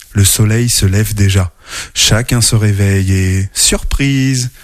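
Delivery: lively storybook narration with character voices; reading to children. A narrator's reading. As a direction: tell it like a bedtime story to kids. (lecture d'histoire pour enfants)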